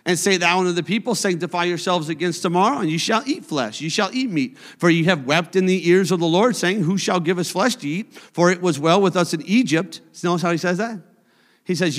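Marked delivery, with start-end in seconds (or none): 0.1-10.0 brisk, fast reading of the verses; scripture reading. Acted. Preacher reading Numbers aloud to the church, brisk. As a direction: rattle off the passage.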